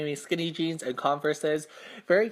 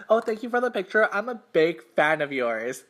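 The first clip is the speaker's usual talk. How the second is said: quick gushing thanks to an idol; retold fan gush, rushed at first; starstruck fan; 3 semitones higher than usual. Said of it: "I said it in that exact same tone".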